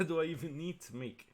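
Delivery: high-pitched, laughing through the words; amused disbelief, voice lifted by laughter. Real, not acted. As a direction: still cracking up while talking. Laughing at a lopsided matchup.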